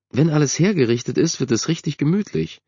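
high-pitched mother's voice; voiced mother. A narrator's reading. Mother answering her son from the kitchen, high voice.

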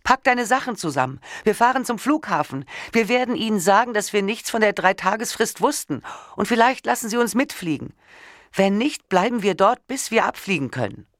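high, trembling panic. A narrator's reading. Wife demanding her husband fetch the passports, panicky and high. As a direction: push the pitch up, barely holding it together. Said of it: "Meine Stimme wurde höher und lauter und ich konnte nicht verhindern, dass sie zitterte".

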